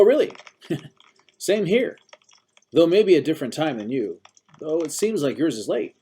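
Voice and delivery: put-on high, loud chatty old-timer; busybody old man. A narrator's reading. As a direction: chatter on, relentlessly cheerful.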